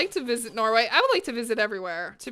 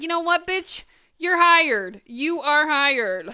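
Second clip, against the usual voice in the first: higher and louder, the last line slow and emphatic; excited boss; 4 semitones higher, 5 dB louder, slower than usual. Retold or imitated. Boss hiring her on the spot, thrilled and drawn out. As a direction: announce it like a jackpot winner. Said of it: "And he's like".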